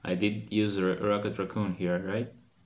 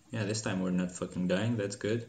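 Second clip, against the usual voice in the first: ordinary talk, nothing marked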